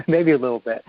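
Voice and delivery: laughing softly. Real, not acted. Admits judging the group with a soft laugh. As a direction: laugh it off as a confession.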